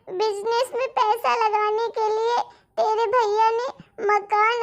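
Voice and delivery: an old father telling his daughter bad news, slowly; grieving father. Father explains the eviction.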